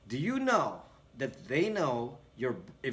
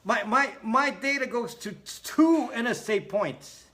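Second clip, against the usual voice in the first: high, louder mock panic; mock panicky viewer; 8 semitones higher, 5 dB louder than usual. Mocking a panicked viewer about her data, high mock panic. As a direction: squeak it like she's panicking. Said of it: "I forgot the actual wording".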